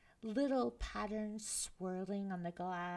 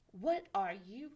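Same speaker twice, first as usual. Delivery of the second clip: mild snap; 3 dB louder than usual. Acted. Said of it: "she snapped".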